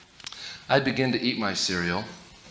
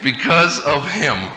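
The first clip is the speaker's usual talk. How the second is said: grumbling. Retold or imitated.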